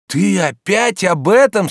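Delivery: high, loud, slow disbelief; astonished. Acted. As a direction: ask it in astonishment. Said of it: "с изумлением спросил Обломов".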